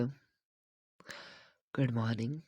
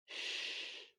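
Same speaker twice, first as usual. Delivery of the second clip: a long soft shh; shushing; 12 dB quieter, much slower than usual. Acted. Trainer shushing his nervous client. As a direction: hush her with a drawn shh.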